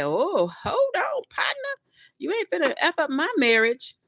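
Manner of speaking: hoch und hektisch, halb gespielt; panicked high plea. Acted. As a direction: shriek it like a caught cheater begging. Lover caught, acted panicked plea.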